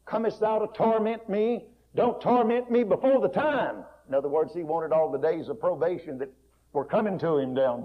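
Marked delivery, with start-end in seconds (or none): 0.0-3.8 high, loud, slow anguished cry; loud, high pleading wail; demoniac's scream. Acted. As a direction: cry out in terror at the Son of God. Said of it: "So he screamed out and said".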